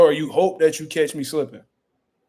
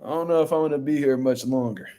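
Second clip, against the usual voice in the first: laughing retold quote; 3 dB quieter than usual. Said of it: "I'm like".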